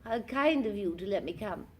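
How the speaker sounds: high, posh lady voice; Sloane Ranger voice. Retold or imitated. Tim Curry finding his character voice, high society lady. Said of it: "So he does that".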